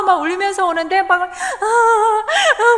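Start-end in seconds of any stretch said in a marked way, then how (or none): 1.2-2.8 slow, high, broken sobs; imitated sobbing. Son sobbing on the way home, imitated sobs. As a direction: mimic the boy's sobbing gasps. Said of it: "훌쩍훌쩍 막 우는 거예요".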